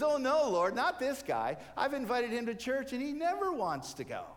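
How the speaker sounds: loud, high "oh no, not this guy"; exasperated protest to the Lord; a man's loud dismayed complaint; dismayed groan. Acted. Neighbor groans at seeing guy.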